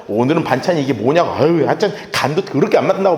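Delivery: lightly imitated griping husband; a touch of fault-finding; grumbling complaint. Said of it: "막 계속 또 안 좋은 말 해대면".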